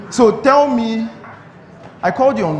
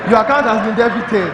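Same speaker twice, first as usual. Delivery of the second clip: laughing; 4 semitones higher than usual. Real, not acted. Laughing at the scam victim.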